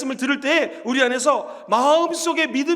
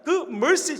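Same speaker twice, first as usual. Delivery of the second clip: ordinary delivery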